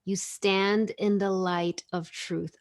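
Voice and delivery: slow reading. Shown as a demonstration. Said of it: "discovering truth".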